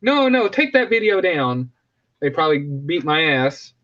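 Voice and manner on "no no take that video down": sudden high squeaky outrage; high startled complaint, mostly in pitch; mock outraged Netflix. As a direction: play a scandalized studio exec, pitch jumping way up. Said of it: "be like".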